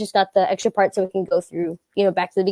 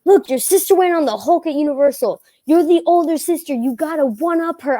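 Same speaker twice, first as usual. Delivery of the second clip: insistent friends' voice, pitched up; higher, pushy retold argument; retold peer pressure; 4 semitones higher than usual. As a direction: imitate friends goading someone into it. Friends pressuring her in retold story.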